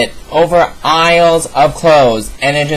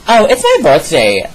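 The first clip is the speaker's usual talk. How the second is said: lightly mocking imitation with swooping pitch; mimicked birthday excuse; 3 dB louder than usual. Girl excusing herself to the mall cop, lightly mimicked. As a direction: mimic the girl pleading her special day.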